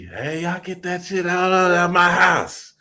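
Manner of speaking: imitated mom's scolding shout; mama going off. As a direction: holler like a fed-up mother. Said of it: "You know, she going off".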